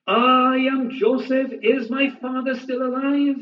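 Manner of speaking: a touch of a brother unmasking himself; lightly voiced Joseph's reveal. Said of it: "he's speaking Hebrew".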